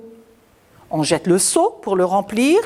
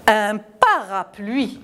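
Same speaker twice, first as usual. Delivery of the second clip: slow naming; slower than usual. Shown as a demonstration. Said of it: "Tout le monde le connaît".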